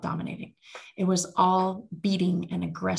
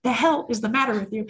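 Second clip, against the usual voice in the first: louder, exasperated imitation of a scolding; 3 semitones higher, 5 dB louder than usual. Dominatrix to her screaming client, exasperated scolding. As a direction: play the fed-up dominatrix.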